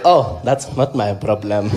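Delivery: low, slow, unbothered president voice; Jacob Zuma. Retold or imitated. President dismissing the puppy's mess, low slow voice. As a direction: shrug it off, deep and leisurely. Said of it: "It was almost like Jacob Zuma".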